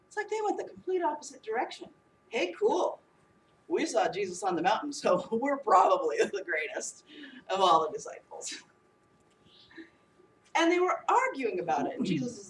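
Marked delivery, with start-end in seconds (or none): 2.3-8.5 boastful disciples. Acted.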